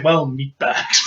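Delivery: low, slow droid drawl; deadpan droid sneer, dragged out slowly; robot voice. Retold or imitated. Fans quote the killer droid, low and slow. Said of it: "He's just like".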